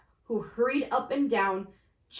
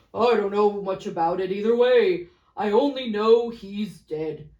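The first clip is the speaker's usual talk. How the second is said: louder blunt businessman; lightly voiced fat merchant; 8 dB louder than usual. Fat merchant shrugging off the death, loudly blunt. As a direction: dismiss it offhand.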